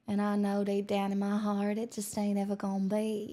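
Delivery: lightly drawled Georgian accent. Shown as a demonstration. Streamer showing chat how Georgian sounds, Georgian accent. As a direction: let a Southern Georgian drawl in. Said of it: "Georgian accent is just a little slower".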